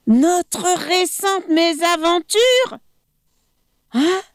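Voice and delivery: high, scornful repeat of his words; mocking echo of the crocodile; incredulous echo. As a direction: throw the phrase back in disbelief. Monkey echoes mockingly.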